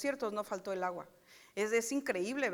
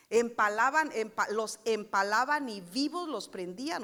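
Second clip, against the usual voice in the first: loud, stressed horror at the cruelty; shocked emphasis; 6 dB louder than usual. Acted. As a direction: hit it hard with outrage. Describe horror de Nínive. (horror enfático, mucho más fuerte)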